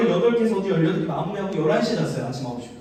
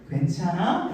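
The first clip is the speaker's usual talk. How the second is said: gentle, softer check-in on an annoyed friend; lower, soothing question; warm concern; 3 semitones lower, 5 dB quieter, slower than usual. Shown as a demonstration. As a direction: softly ask with care. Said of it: "이렇게 따뜻하게 말할 때".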